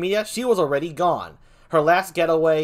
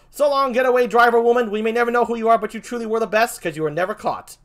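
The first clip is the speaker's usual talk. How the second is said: mock farewell; 5 semitones higher, 4 dB louder than usual. Mock farewell to the getaway driver.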